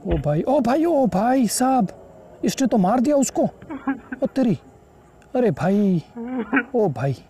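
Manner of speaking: high, drawn-out cries of disbelief; stunned and thrilled at once; high slow wails of shock; shocked excitement. Real, not acted. Grandpa killed on screen.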